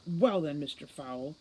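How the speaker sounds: scornful, biting address; contemptuous. Acted. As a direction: spit it with heavy contempt. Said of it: "she spat, heavy on the contempt".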